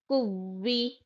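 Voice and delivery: कुव्वी with a held, doubled व; doubled waw. Shown as a demonstration. Teacher models the correct doubled waw for students. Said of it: "कुवी नहीं".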